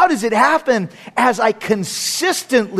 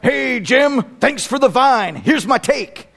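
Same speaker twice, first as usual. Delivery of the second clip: sports radio caller; slower than usual. Retold or imitated. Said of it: "he calls up and he's like".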